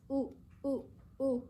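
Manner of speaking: short, separate "U" sounds; teacher modelling a short Spanish "u"; isolated letter sound. Shown as a demonstration. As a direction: say "u" as a pure vowel, evenly spaced. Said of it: "los sonidos".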